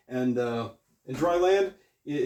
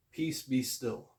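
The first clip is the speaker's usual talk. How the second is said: slow and soft, a hint of Jesus calming the storm; calm command; 6 dB quieter, slower than usual. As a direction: say it slowly, softly, like stilling a storm. What does he say?.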